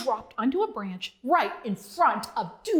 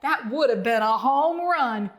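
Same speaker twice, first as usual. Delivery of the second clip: higher, louder happy cheer; 5 semitones higher, 3 dB louder than usual. Acted. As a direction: cheer like a proud little frog. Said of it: "as Bonzo cheered".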